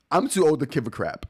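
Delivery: repeats it through a laugh; amused laughing echo. Real, not acted. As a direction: chuckle while echoing the line. Repeats the viewer's line laughing.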